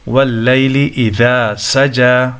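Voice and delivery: lengthened final vowel in سجى; recited with سجى stretched at the end; long vowel. Shown as a demonstration. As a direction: hold the "aa" at the end of سجى for one alif. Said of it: "ایک الف کے برابر کھینچا جائے گا".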